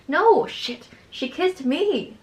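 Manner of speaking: bitter. A narrator's reading. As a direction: throw it back with mock bitterness. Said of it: "she says bitterly".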